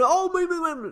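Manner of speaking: put-on high, gushing baby-talk coo; mock cooing. Mocking dog lovers who treat dogs as babies, cooing. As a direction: parody a dog lover melting over a puppy.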